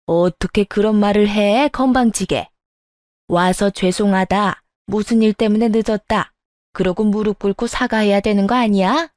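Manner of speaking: understated haughty scolding; a touch of acted outrage; angry mother-in-law. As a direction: lecture an insolent daughter-in-law, mildly indignant. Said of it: "시모가 미친 듯이 화를 내더군요".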